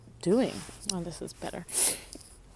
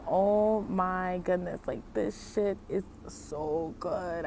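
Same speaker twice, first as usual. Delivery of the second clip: savoring craving; slower than usual. Retold or imitated. Craving food while fasting.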